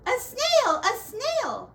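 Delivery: high, loud alarmed cry; shocked shriek. A narrator's reading. Teacher shrieking at the snail, shocked. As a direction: shriek at the sight of it. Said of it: "The teacher turns pale".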